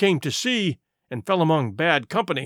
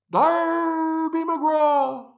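very high, slow ghostly wail held long; distant wail; 10 semitones higher, much slower than usual. Acted. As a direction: stretch the name out, high and eerie, as if from the clefts. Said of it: "it wailed".

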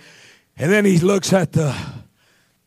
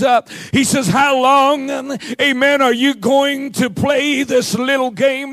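raised, driving sermon delivery; fired-up preaching; 3 semitones higher than usual. Real, not acted. Preacher challenging the congregation to choose, fired-up preaching.

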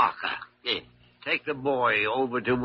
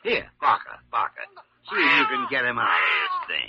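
gruff shout; 5 dB louder than usual. Acted. Doctor shouting to nurse.

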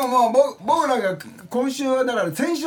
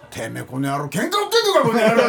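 japanese delinquent tough talk. Retold or imitated. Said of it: "昔の現役の時に戻っちゃってる".

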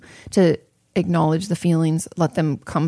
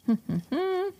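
quick breathy high laugh; a little laugh at herself; soft giggle, far quieter; short high giggle; 13 semitones higher, 8 dB quieter than usual. Real, not acted. Laughing at own coffee remark.

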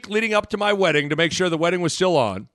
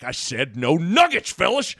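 Coach Altman. Retold or imitated. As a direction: imitate a coach drawing out a reprimand. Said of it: "But Coach Altman".

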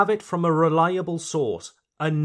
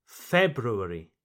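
FEB-roo-air-ee, February leaning on FEB; stress on first syllable; 5 semitones lower than usual. Shown as a demonstration. Teacher shows where the accent goes, February stressed on FEB. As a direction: hit the first syllable of February, then fall away. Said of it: "the emphasis on the first syllable".

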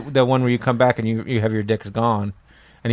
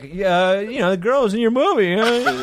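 raised-pitch mocking quote of fans; high mocking voice; 10 semitones higher, slower than usual. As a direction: pitch up to mock the people who said it. People's reaction retold, mocking.

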